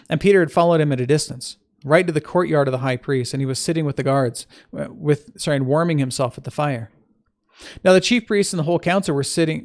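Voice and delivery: clear, emphatic Bible reading; scripture reading. Acted. Teacher reading the Gospel to listeners, measured scripture reading. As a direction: read the passage aloud with firm opening stresses.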